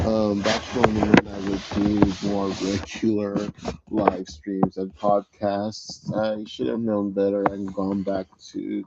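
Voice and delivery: slightly wheezy, recovering from bronchitis; a little wheezy breath in the voice. Real, not acted. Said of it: "sometimes I sound a little wheezy".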